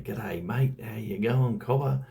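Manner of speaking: mock broad Australian ocker greeting, rising to the end; broad Aussie greeting. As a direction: play up a broad Australian accent, a hint of a larrikin. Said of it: "you wanted to say".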